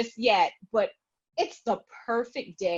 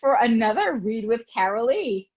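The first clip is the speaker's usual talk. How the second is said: excited greeting; 6 semitones higher, 5 dB louder than usual. Real, not acted. Host greets children on show.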